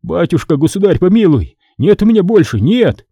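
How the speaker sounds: a hint of a quaver while begging; trembling plea. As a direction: beg for mercy, voice trembling. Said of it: "Голос Васьки Кривого дрожал".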